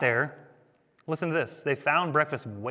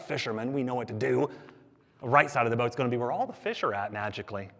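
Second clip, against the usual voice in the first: sarcasm sinking to a softer undertone; sarcastic; 3 semitones lower, 5 dB quieter, faster than usual. Acted. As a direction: trail down into dry mockery. Sarcasm continued, dropping to an undertone.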